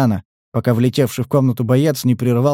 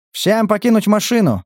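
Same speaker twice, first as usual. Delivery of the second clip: shouting orders over battle; 8 semitones higher than usual. A narrator's reading. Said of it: "скомандовал лейтенант".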